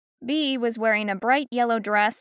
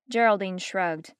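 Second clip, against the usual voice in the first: plain reading voice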